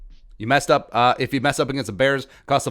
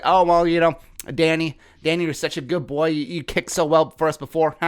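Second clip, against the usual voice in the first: mock-sweet higher voice, babying the kicker; coddling coach voice; 3 semitones higher than usual. Mocking the Vikings coddling their kicker, sugary. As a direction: coo at him like a pet. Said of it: "they're just like".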